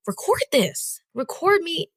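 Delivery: giddy, rising call to be filmed; excited. Retold or imitated. Telling her boyfriend to film her, lightly excited. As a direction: urge him on, thrilled. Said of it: "I tell him".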